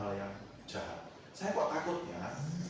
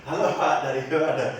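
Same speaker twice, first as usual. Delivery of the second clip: loud retelling; 3 semitones higher, 11 dB louder than usual. Retold or imitated. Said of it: "Dijawab kayak gitu".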